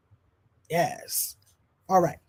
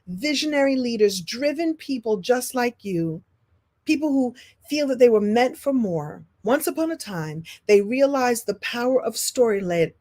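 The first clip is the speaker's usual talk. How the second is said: lightly voiced storybook telling; fairy tale narration; 3 semitones higher than usual. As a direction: spin it like a bedtime tale. Tells a business fairy tale.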